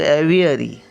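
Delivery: एव्हिअरी said smoothly with no h; एव्हिअरी as "eh-vee-ree", the v clean; plain English एव्हिअरी, no h; no h sound. Shown as a demonstration. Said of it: "बोलतानाच बोलायचं".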